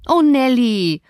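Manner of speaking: annoyed. Acted. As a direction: snap at the maid in irritation. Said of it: "fuhr sie ärgerlich fort".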